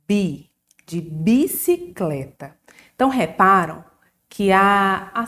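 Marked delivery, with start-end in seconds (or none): 0.1-2.6 "bi" said slow and drawn out on its own; syllable sounded out. Shown as a demonstration. Teacher sounding out the first syllable of bicicleta. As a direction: stretch the syllable "bi" before the whole word. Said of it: "formamos a sílaba".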